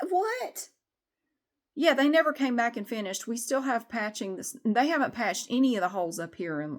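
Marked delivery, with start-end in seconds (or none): 0.1-0.7 breathy whispered what. Real, not acted. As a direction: whisper it, rising. Whispered aside.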